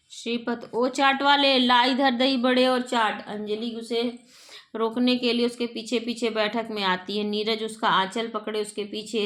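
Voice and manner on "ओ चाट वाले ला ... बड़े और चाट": a raised, carrying hail; calling out. Acted. Uncle shouts to the chaat seller outside, calling out loudly. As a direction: call out to the vendor from the doorway. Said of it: "जाकर आवाज़ देता है".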